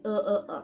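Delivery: আ as 'uh' from inside the throat; throaty schwa. Shown as a demonstration. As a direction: sound each আ separately as a throaty 'uh'. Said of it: "গলার ভেতর থেকে আসে". (গলার ভেতর থেকে 'uh' ধ্বনিতে আ)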